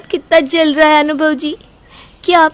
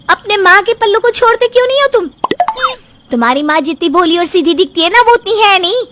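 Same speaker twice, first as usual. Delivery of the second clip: angry scolding. Acted. Wife scolds husband at night.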